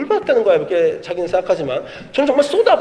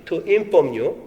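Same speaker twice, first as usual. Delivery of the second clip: slow reading; 3 semitones lower, 3 dB quieter, much slower than usual. Retold or imitated. Father reading his daughter's acceptance email aloud, slow and deliberate. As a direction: read out very slowly, word by word. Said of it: "이렇게 써있더라고요".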